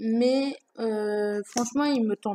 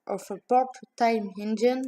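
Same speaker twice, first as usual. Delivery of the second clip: reading the English title, apologetic French accent; French-accented English, careful and hesitant. Real, not acted. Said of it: "Désolée de l'accent". (titre anglais lu avec un fort accent français)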